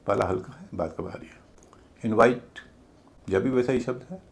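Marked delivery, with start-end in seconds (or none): 2.0-2.6 "इनवाइट" with a light "इन" and heavy "वाइट"; stress on second syllable. Shown as a demonstration. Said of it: "दूसरा भारी है". ("इनवाइट" में "वाइट" भारी, "इन" हल्का)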